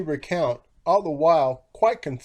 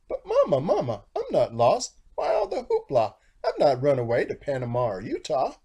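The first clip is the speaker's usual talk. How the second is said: chick voice. Acted. Chick protests to mother.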